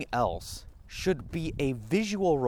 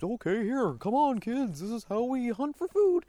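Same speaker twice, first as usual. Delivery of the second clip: much higher, cheery mother-bear voice; mama bear teaching; 12 semitones higher than usual. Pretend. Mama bear explaining hunting to her cubs, high cheery. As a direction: coax the cubs along like a bright mom. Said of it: "a mama bear isn't telling her cubs".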